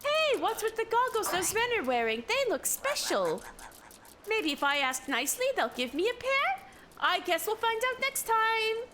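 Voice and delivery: cutesy character voice. Acted. Reading a character's line aloud.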